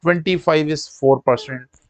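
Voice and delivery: reciting a memorised fraction table to students; list-like drill, one pair after another; quick-fire recitation. Shown as a demonstration. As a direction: rattle through the table in a steady run. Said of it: "बहुत जल्दी से आपके सामने सुना दी".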